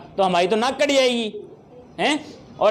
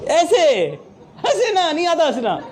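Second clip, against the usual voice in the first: laughing demo; 6 semitones higher than usual. Shown as a demonstration. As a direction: laugh while you speak. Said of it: "आता है हंसना". (हँसते हुए, ऊँची आवाज़ में)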